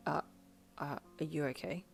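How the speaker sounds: low, soft, hesitant concern; worried. A narrator's reading. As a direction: stumble gently into the question, quiet and low. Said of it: "he asked worriedly".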